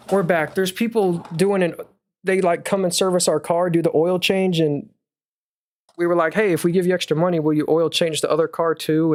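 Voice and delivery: talking while catching breath; a bit winded after running to the door. Real, not acted. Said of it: "Now I'm out of breath".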